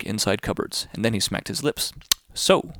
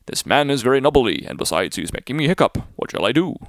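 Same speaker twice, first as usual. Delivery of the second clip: louder, aggrieved big whale; whale complaining; 2 semitones higher, 5 dB louder than usual. Acted. The hiccuping whale complains to the fish, louder. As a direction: grumble loudly like a bothered whale.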